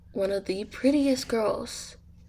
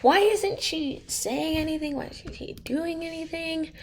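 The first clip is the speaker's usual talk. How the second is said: nervous questions pitched higher, half-played; a hammed-up flustered panic; mock scared; 7 semitones higher than usual. Max confused by Jane's staring, mildly scared. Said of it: "like, so scared".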